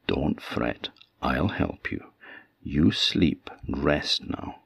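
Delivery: slow, soft, eerily calm doll; too calm creepy doll. Acted. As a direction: soothe her in a creepy hush. Doll soothes Vasilisa.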